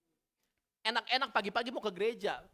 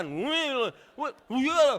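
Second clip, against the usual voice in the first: mock squeal; 4 semitones higher, 5 dB louder, much slower than usual. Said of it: "jantung gue kayak ketinggalan".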